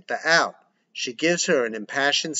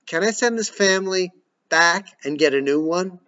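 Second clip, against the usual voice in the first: higher, exasperated plea; 6 semitones higher, 4 dB louder than usual. Acted. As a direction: throw up your hands. Exasperated mother.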